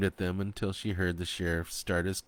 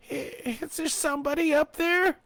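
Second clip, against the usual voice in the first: high, loud call up the hole; 5 dB louder than usual. A narrator's reading. Trapped woman calling up to the hunters above. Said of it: "Fanny called out".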